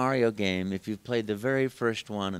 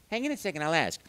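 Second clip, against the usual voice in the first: higher, lightly voiced Mario; 6 semitones higher, faster than usual. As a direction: reassure the kids. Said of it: "I'd say".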